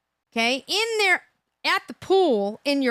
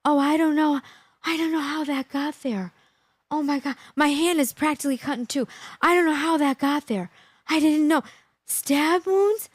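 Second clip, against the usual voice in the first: mock innocent woman; 3 semitones higher than usual. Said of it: "how many lies".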